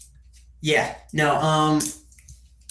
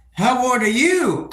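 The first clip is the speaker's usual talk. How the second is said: creepy guy; 8 semitones higher, slower than usual. Acted. Acting out a creep's question.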